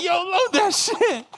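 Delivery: very high, loud, drawn-out shout with laughter; mock yelled order. Man handing over a shell mid-fight, hammed-up yell. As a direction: holler the command, cracking up. Retold command during the fight.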